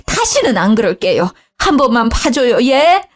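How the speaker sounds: whining plea. Acted. Mother-in-law pleading with her furious husband, high and whiny.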